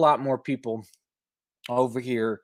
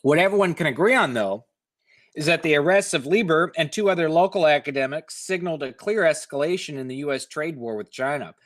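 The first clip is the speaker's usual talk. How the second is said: higher, measured reporter read; article read aloud; 3 semitones higher than usual. Acted. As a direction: read it like a radio feature story. Reads article text aloud.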